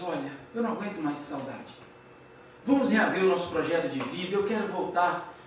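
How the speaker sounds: low, subdued retold plea; soft opening, quietly earnest; tender plea. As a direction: gently voice a lover's plea, low. Saulo pleads with Abigail at bedside.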